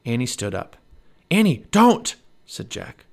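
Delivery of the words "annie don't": high, loud urgent protest; alarmed cry. A narrator's reading. Jack sees Annie rise toward danger, alarmed shout. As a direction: cry out to stop her. Boy tries to stop sister.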